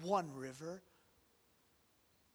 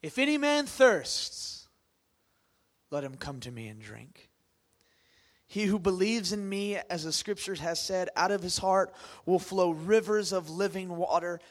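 crying out; 6 dB louder than usual. Acted. Preacher reading Jesus' cry at the feast, loud proclamation. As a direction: call out like a prophet. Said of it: "Jesus stood and cried and said".

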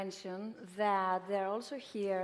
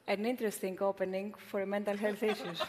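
laughing; 4 dB quieter, faster than usual. Real, not acted. Laughing at a joke.

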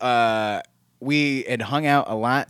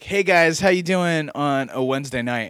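lightly acted stand-up greeting, starting louder; scripted set opener; 4 semitones higher, 3 dB louder than usual. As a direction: open a set to the crowd. Quotes own scripted set opener.

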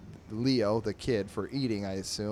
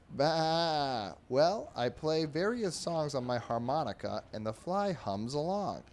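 light bleating sheep voice, a bit higher; 5 semitones higher than usual. Acted. Sheep chatting with the pig, lightly bleating. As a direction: bleat the Bah then talk like a lazy sheep.

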